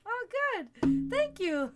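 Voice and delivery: high, loud, fake-thrilled thanks; mock delight. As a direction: gush with hammed-up sarcastic gratitude. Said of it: "And I'm like".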